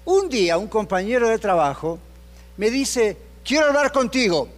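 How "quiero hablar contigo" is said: a grim, serious summons; mock-menacing coworker; ominous tone. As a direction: say it like trouble is coming. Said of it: "En ese tono".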